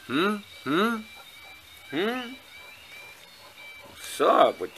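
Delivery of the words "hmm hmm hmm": teasing hmm. Real, not acted. Teasing dogs wanting to fight.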